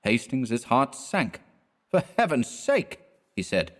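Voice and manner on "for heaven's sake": shocked friend. A narrator's reading. Hastings shocked at drunk friend.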